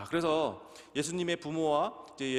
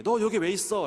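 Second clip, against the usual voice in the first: scolding mother; 5 semitones higher, 6 dB louder than usual. Retold or imitated. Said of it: "라고 얘기했을 때".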